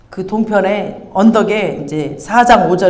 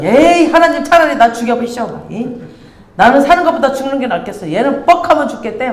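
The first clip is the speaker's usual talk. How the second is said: higher, petulant whining to God; whiny Jonah; 5 semitones higher than usual. Retold or imitated. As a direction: whine like a sulky child. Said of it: "막 이러면서 난리를 치는 거예요". (신세 한탄하며 투덜대는 요나)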